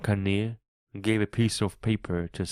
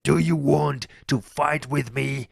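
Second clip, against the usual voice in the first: raised, higher-pitched angry challenge; terrible shouting; 6 semitones higher, 4 dB louder than usual. A narrator's reading. Silver challenges a man to fight, shouting terribly. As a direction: shout it as a menacing dare. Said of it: "Silver shouted in a terrible voice".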